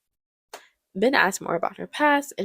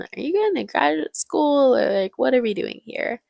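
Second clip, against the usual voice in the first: confronting dad; 7 semitones higher than usual. Acted. Ben's dad confronts him about grad school, mock exasperated.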